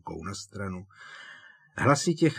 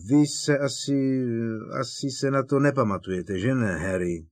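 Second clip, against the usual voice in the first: unsure how to ask; awkward; 4 semitones higher, 4 dB louder than usual. Acted. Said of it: "zeptal se rozpačitě". (rozpačitě)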